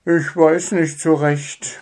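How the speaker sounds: hesitate, unsure; doubtful. Acted. Hare father hesitates over the invite, doubtful. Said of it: "meinte Schnuffi zweifelnd".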